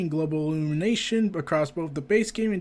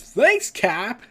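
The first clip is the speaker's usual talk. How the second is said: sarcastic thanks; 4 semitones higher, 5 dB louder than usual. Acted. Sarcastic thanks to Captain America.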